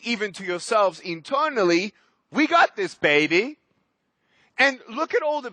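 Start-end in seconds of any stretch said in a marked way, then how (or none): 2.3-3.6 excited rally. Real, not acted. Rallying the audience.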